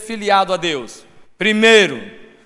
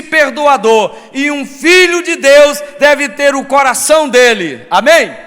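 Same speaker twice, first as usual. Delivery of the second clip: raised, louder pulpit voice; full-force preaching; 4 semitones higher, 5 dB louder than usual. Real, not acted. Preacher urging congregation to be forgiving, fervent and loud. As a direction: drive each phrase home emphatically.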